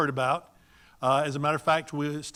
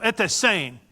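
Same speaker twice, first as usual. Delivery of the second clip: a touch of hearty emphasis; with gusto; 3 semitones higher, 4 dB louder than usual. Shown as a demonstration. Speaker demonstrating a familiar greeting between friends, with gusto. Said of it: "they do it with gusto".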